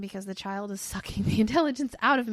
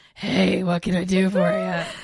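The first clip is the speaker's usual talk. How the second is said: put-on sultry, sexy phone voice, raised pitch; 3 semitones lower, 7 dB louder than usual. A woman who works on the phone shows how she answers callers, sexy cold voice. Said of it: "with my sexy cold voice".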